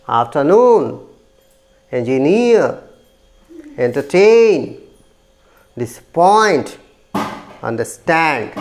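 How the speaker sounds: afternoon, engineer, entertain, disappoint, understand: last syllable long and lifted, then falling; stress on third syllable. Shown as a demonstration. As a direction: punch NOON, NEER, TAIN, POINT, STAND in afternoon, engineer, entertain, disappoint, understand. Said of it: "stress on the third syllable". (afternoon, engineer, entertain, disappoint, understand के तीसरे syllable पर ज़ोर)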